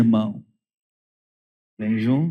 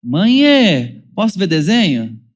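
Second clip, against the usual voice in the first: put-on high, sweet kid asking permission; child asking mother to watch cartoons, sweet plea; polite child's request; 4 semitones higher, 4 dB louder, slower than usual. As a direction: ask like a child wanting cartoons. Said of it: "Uma petição formal".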